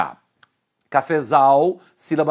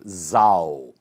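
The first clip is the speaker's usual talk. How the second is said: zal isolated, lower and drawn out; stressed syllable zal; 8 semitones lower than usual. Shown as a demonstration. Teacher singles out the last syllable, zal said low and weighty. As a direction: give zal alone as the strong syllable. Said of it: "a sílaba tônica está na última".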